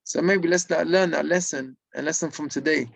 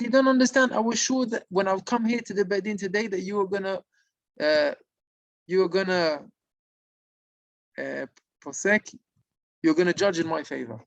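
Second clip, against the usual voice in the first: high, pleading voice of a spirit near tears; retold desperate plea, pitched high; crying plea; 4 semitones higher than usual. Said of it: "And he started crying".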